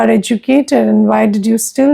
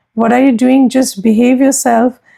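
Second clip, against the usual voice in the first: usual speaking voice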